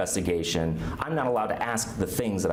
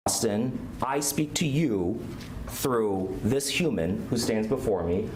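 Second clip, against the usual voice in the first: mock solemn invocation; slower than usual. Mock solemn address to city.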